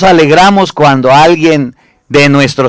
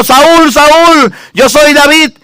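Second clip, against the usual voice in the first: calling out; 7 semitones higher, much slower than usual. Acted. David calling after King Saúl from afar, raised call. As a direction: call his name out high across the distance.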